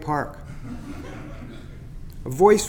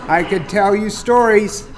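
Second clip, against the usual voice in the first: teasing starling. Acted. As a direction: gloat a little over the fake heron scare. Chatter on humans.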